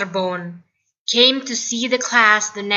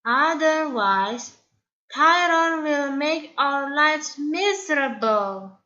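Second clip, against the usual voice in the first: timid friend; 6 semitones higher than usual. Acted. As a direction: suggest it nervously. Timid Stego worried.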